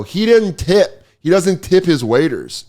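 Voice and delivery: high, slow accusation; drunkenly animated. Retold or imitated. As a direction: announce it to the room, drawn out. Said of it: "I'm starting to get pretty animated".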